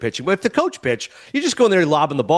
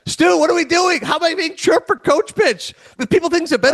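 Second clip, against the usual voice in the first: exasperated disbelief; 11 semitones higher than usual. Real, not acted. Exasperated rant to the host.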